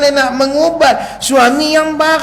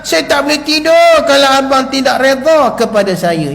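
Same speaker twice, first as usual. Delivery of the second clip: pleading wife; 2 semitones higher than usual. Acted. Wife begging angry husband, mildly pleading. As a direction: beg her husband lightly for forgiveness. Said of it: "apa yang disebut oleh wanita syurgawi ini".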